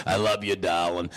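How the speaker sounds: low Beetlejuice-style croak; mother as Beetlejuice. Retold or imitated. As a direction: her low put-on mother voice. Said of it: "Sounds like my mother".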